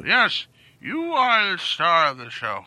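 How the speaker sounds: put-on slow elderly man; old man voice. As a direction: talk like a slow old-timer. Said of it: "Stop talking like an old man".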